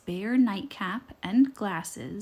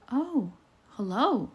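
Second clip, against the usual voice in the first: friendly greeting; 3 semitones higher than usual. A narrator's reading. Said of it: "smiling back at the wolf".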